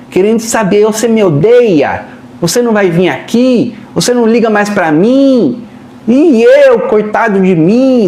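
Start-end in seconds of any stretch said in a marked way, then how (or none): 0.8-5.7 acid tone. Acted. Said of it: "vêm com tom ácido". 6.1-8.1 mock self-pity. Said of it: "sempre vem uma entonação".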